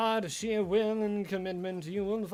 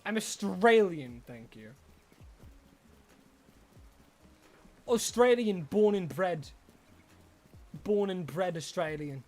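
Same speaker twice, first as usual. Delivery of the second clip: mock Australian accent. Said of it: "Does my accent say as much?".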